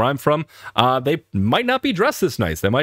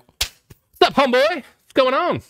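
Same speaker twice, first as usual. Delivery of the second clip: hyped American greeting; 13 semitones higher, slower than usual. Retold or imitated. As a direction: play a buddy greeting his homeboy at full hype. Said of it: "if you were in America, it'd be like".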